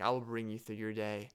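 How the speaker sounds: gentle instructor voice, lightly imitated; soothing yoga teacher voice. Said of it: "nice, soothing sounding voice".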